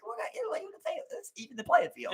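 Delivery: high-pitched laughing put-on voice; squeaky, teasing fake laughter; start laughing. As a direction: talk through mock giggles. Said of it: "I'll say something in English and start laughing".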